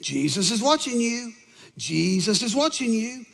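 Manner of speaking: a hint of an eerie little warning voice. Parrot warning a burglar in the dark, little voice. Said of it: "it says it again".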